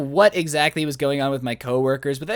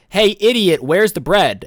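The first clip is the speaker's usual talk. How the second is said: loud, rude customer demand; mock yell, punched hard from the first word; imitated yelling; 6 dB louder, slower than usual. Imitating a rude lady yelling at a store worker. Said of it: "yelling at my face".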